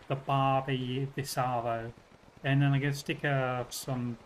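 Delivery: put-on Australian accent. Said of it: "You still sound too British".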